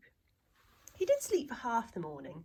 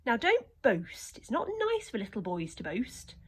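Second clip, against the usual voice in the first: mild scolding; 3 semitones higher than usual. Acted. Old lady scolds.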